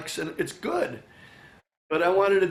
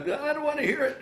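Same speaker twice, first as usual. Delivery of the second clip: higher-pitched mock whine; mock fed-up protest; 11 semitones higher than usual. Musician imitating himself sick of his own recordings, mock fed-up. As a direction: act out being sick of it. Acting out being sick of hearing it.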